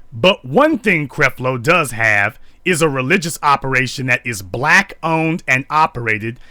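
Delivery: high, mocking read of her words; a lightly mocking imitation of the woman; mocking her statement. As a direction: parody her defiant challenge, rising high. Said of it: "Now, she goes on to say".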